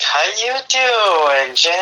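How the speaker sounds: very slow, drawn-out sultry greeting; imitating her lost-voice sultry hello; mock bedroom voice. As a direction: tease her by slowly drawling it. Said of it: "bedroom voice".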